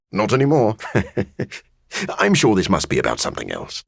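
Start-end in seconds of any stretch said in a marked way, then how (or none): 1.5-3.8 fast, laughing brush-off. Acted. The vampire laughs off Hunter's question, speaking fast. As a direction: laugh and hurry past it.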